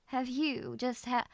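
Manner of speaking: slow, drawn-out British English; British accent. Acted. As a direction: put on a British accent, word by word. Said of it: "How would you say that in British English".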